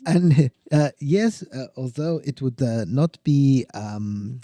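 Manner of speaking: mock German scientist voice; a jokey German accent. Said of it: "That's, that's my German accent".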